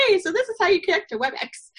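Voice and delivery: high, bright customer support chirp; cheery helper voice. Retold or imitated. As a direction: play the upbeat tech helper. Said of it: "calling up students going".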